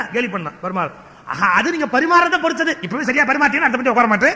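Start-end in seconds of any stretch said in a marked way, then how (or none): 1.3-4.3 higher, louder comeback to teasing; acted retort. Wedding guest answers the teasing server, acted retort. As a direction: answer back in a raised, lively voice.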